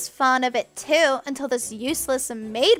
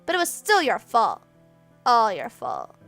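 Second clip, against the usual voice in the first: loud, rising, gloating blame with stress on still and all; scheming taunt; 5 semitones higher, 4 dB louder than usual. Acted. Spoiled girl gloats, pinning the blame on the maid. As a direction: gloat as you pin the blame.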